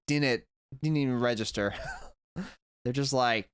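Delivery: usual speaking voice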